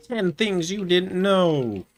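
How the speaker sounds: high, slow, hyped YouTuber voice. Shown as a demonstration. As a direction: read it like a clickbait video title. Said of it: "I had to say that in my YouTuber voice".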